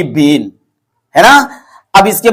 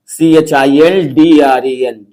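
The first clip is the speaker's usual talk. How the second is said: slow letter-by-letter spelling, lower pitch; low, measured dictation of letters; 5 semitones lower than usual. Shown as a demonstration. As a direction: spell it slowly for a class, each letter separate. Spelling out children for class.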